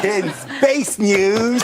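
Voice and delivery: slow grand intro through laughter; slow space-news headline cracking up; laughing announcer. Acted. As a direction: try the headline while giggling. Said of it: "Oh, I love saying this".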